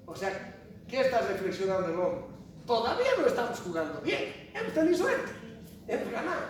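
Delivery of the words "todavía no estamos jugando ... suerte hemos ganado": humble reflection. Shown as a demonstration. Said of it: "estás reflexionando".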